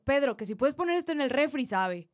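fed-up second request ending in a firm sabe; impatient repeat. Shown as a demonstration. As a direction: say it again because he ignored you. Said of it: "y no me haces caso".

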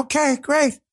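deadpan fake approval; sarcastic okay great. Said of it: "I thought".

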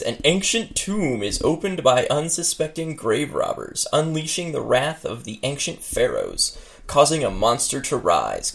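lively read-aloud with lifted starts; dramatic blurb reading. A narrator's reading. Host reading the story description to co-hosts, dramatic blurb reading. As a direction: read the game blurb with relish.

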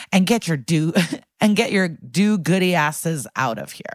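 lightly voiced menacing aunt; evil aunt. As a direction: imitate a hostile aunt warning someone off. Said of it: "she turns around evil and goes".

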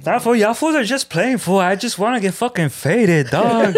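loud, high whining Cholo; Cholo accent. Pretend. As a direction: complain loudly like a stoned homie. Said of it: "we'll pretend like we're Cholos".

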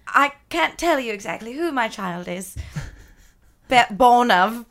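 lightly voiced servant woman; a hint of character voice, careful introduction; Prudence. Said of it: "do you have a voice and everything".

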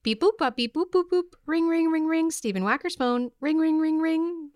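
high sing-song beep boop and ring ring; mock phone ring. Dialing and ringing a phone.

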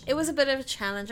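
quick unvoiced whisper. Shown as a demonstration.

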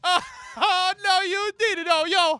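loud, high hammed-up fan screaming; exploding with hype. Reader exploding over his comic, ecstatic yelling. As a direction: lose it completely, shouting in drawn-out bursts. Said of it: "Y yo me estallo, digo".

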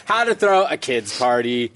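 announcer read. Shown as a demonstration. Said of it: "Can we get that script back?".

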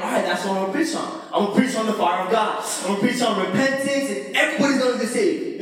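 retold excitement, climbing as the plan grows; eager preaching. Young preacher planning his first revival sermon, eagerly.

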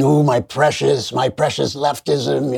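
slow, lightly voiced Gollum hiss; a hint of Gollum, drawn out and creepy. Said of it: "that little monster, going".

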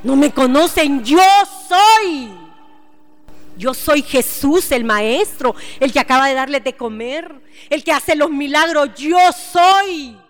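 firm, measured self-declaration, rising on the last words; Jesús speaking with authority. Acted. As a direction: assert who you are, building to a strong close. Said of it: "tuvo que hablar con autoridad".

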